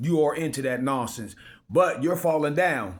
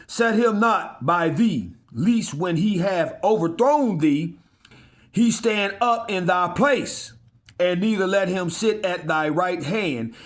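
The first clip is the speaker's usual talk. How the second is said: slow, raised, solemn Bible reading; scripture reading; 2 semitones higher, slower than usual. Acted. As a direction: intone the verse with weight. Preacher reads scripture aloud.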